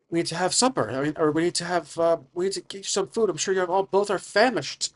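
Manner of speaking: lightly voiced mother offering food; caring stepmother. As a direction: fuss over hungry guests. Game master plays Galera, the stepmother.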